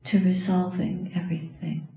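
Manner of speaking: measured dharma talk with long pauses; meditative dedication. Real, not acted. Teacher dedicating the practice to those who died, meditative and measured. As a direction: lead a solemn dedication, pausing between phrases.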